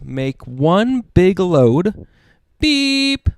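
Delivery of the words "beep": high piping beep; truck horn beep. Acted. Dad voicing Blue's horn on the road, high piping. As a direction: toot like the little blue truck. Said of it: "says Blue".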